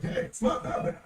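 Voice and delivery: hushed, imitated soothing; calming him down. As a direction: talk an angry partner down. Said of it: "I'm trying to calm him down".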